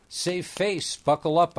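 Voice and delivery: high, cracking voice forced out nervously; cracking stutter. Acted. To the pretty girl, a nervous cracking stutter. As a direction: try to sound cool and crack. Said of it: "I stuttered, trying to sound cool, but ending up with my voice cracking".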